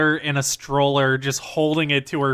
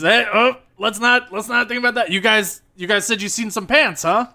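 Lenny smoothing things over; 6 semitones higher than usual. Acted.

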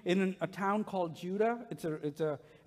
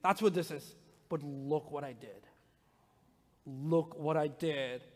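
put-on louder, breathless kid rushing through it; excited son; 3 semitones higher, 5 dB louder than usual. Son insisting dad admire the color patterns, excited. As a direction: gush like a boy proud of his creation. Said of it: "And he's like".

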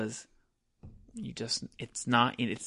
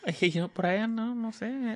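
higher, evasive mom voice with a laugh; evasive mom impression; 8 semitones higher than usual. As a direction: shrug off the question about the father, laughing. Mocking mom dodging dad question.

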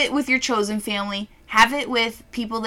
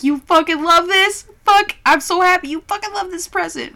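higher, louder gushing delight; thrilled gushing; 8 semitones higher, 6 dB louder than usual. Retold or imitated. Adult gushing at a child loving the present, thrilled. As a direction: squeal with joy at their happiness.

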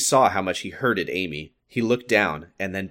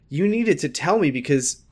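higher-pitched, indignant accusation; angry character line that climbs into disbelief; 7 semitones higher than usual. A narrator's reading. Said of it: "she said very angrily".

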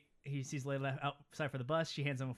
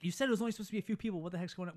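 rushed, higher mock complaint; upset; 5 semitones higher, much faster than usual. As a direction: blurt it out like a flustered host. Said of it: "Will gets upset".

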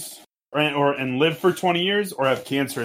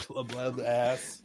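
quiet fish voice; 12 dB quieter, much slower than usual. Retold or imitated. Repeating fish talk quietly.

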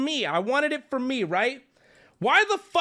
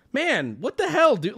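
half-joking complaint; 3 semitones higher than usual. Retold or imitated. Customer complaining to the worker, half joking. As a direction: grumble it with a grin. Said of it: "half joking".

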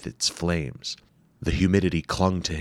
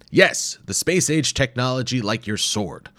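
dry sarcasm; 7 semitones higher, 4 dB louder than usual. A narrator's reading. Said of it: "Doctor Wimple said dryly".

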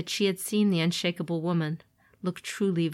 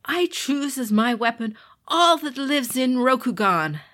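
serene monk champion; 6 semitones higher, 7 dB louder than usual. Acted. Togashi answers duel calmly.

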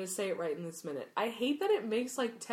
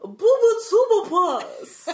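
drawn out, much higher and louder, laughing; hammed-up Jim Dale; 13 semitones higher, 15 dB louder, much slower than usual. Friend mimics the audiobook reading to her cohost, slow and loud. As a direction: stretch every syllable, slow and loud. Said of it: "sounds more ridiculous every time you say it".

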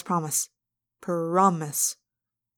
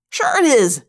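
loud, falling contradiction; yelled retort; 4 semitones higher, 7 dB louder than usual. A narrator's reading. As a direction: shout him down. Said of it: "Marco yelled".

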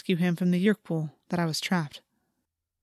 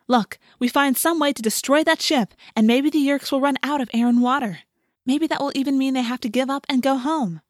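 put-on forceful, higher-pitched young fighter urging action; Rachel; 6 semitones higher, 3 dB louder than usual. A narrator's reading. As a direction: press the plan eagerly, voice raised. Narrator voices Rachel urging attack.

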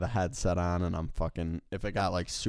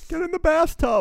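very high-pitched comic alarm; mock panicked warning; 5 dB louder than usual. Friend joking that dad's yell is disaster, mock panicked warning. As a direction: cry it out like a pretend emergency.

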